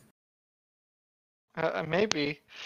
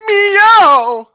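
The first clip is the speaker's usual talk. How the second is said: louder and higher pitiful meows; piteous cat cry; 14 dB louder than usual. Acted. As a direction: yowl like a terrified cat, rising. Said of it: "it cried piteously".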